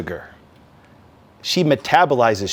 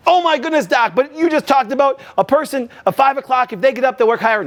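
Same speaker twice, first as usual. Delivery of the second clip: a lightly voiced, higher, surprised listener; a touch of an incredulous audience member; mock viewer objecting; 9 semitones higher than usual. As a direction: play the protesting viewer, half-hearted.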